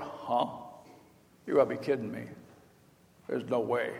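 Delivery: low, soft, muttered disbelief; the old man can't believe his ears; stunned disbelief. Retold or imitated. Abraham hears he'll have a son, stunned and quiet. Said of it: "And Abraham went".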